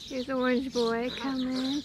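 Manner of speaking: loud coaxing call; calling a puppy. Real, not acted.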